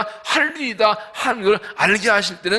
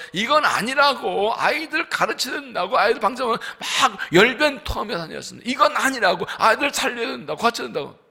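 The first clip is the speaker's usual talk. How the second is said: raised voice, hammering each line; fervent raised exhortation; impassioned preaching; 5 semitones higher, 4 dB louder than usual. Retold or imitated. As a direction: preach it like a street campaigner. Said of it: "외치고 다녔습니다".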